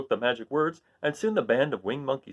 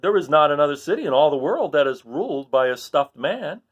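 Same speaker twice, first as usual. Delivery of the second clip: louder, lightly voiced crowd; townsfolk; 4 semitones higher, 4 dB louder than usual. Townsfolk praising their stuffed ruler. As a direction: voice of proud townsfolk. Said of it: "they said".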